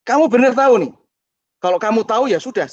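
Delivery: high, loud urgent pleading; the driver bursting to confess. Retold or imitated. Driver to boy on roadside, high urgent confession.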